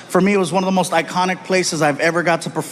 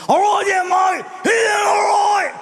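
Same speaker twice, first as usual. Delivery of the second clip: put-on raspy drunk Aussie; 14 semitones higher than usual. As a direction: slur it like a drunk pirate underwater. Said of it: "He had more of a raspy voice".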